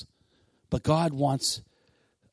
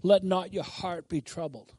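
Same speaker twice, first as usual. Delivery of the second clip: passive reading; 5 dB quieter than usual. Acted. Preacher mimics someone casually recalling the word, passively. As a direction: take it as just a nice saying. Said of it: "Oh, that's nice".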